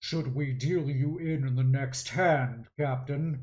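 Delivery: deep, machine-like robotic delivery. Storyteller voices a character asking the captain about the next hand: Arc Eleven's deep mechanical voice. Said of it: "in a deep mechanical voice goes".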